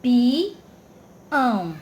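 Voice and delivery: "Pião" in two long beats, pi then ão; split into syllables. Shown as a demonstration. Teacher separating the vowels for pupils, "Pião" split in two. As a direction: break "Pião" apart with a clear gap. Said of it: "as vogais ficaram separadas".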